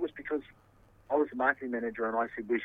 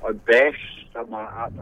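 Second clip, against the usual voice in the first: slow and much louder, incredulous; disbelieving echo; 2 semitones lower, 11 dB louder, much slower than usual. Real, not acted. Accused man repeating the bashing claim to his interviewer, disbelieving. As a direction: hit the accusation hard, drawn out.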